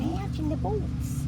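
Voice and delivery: dog voice. Pretend. Voicing the dog.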